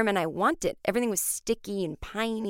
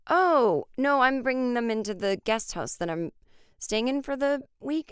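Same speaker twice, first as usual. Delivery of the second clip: startled correction; 5 semitones higher than usual. Retold or imitated. Correcting the landlady.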